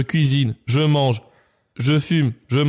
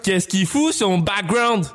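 higher, slow indignant cowboy line; outraged cowboy; 5 semitones higher than usual. Acted. Sylvester complains about the gang, high and slow. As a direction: stretch the outrage out slowly. Same line repeated, reworded.

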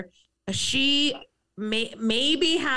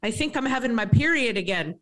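light Irish brogue; grandmother's gentle Irish lilt; a hint of Irish brogue; 2 semitones higher than usual. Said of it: "in her Irish brogue".

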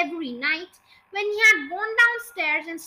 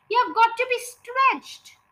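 high, loud pronouncement; raised, declaiming voice; proclaiming; 6 semitones higher, 5 dB louder than usual. A narrator's reading. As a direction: announce the drastic cure emphatically. Villain announces the cure.

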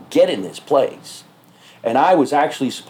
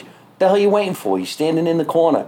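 higher, incredulous stand-up delivery; stage routine; 6 semitones higher than usual. Retold or imitated. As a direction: act out a challenge to the crowd. Acting out his stage routine.

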